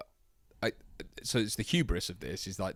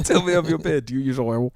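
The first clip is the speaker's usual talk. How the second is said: mock villain line; 4 semitones higher, 8 dB louder than usual. Repeating the villain quote.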